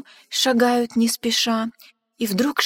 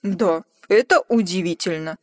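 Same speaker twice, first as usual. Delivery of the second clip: low, slightly deeper amazed murmur; lightly voiced monster; 3 semitones lower, 3 dB louder than usual. Gruffalo murmuring in a low voice, impressed by the mouse. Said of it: "промолвил страшный зверь".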